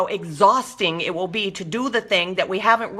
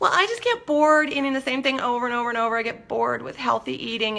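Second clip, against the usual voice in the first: grating, high, complaining whiny voice; 5 semitones higher than usual. Answering a question, acting out what a lot of people say, in a mock-whiny voice. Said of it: "I'm using that annoying whiny voice".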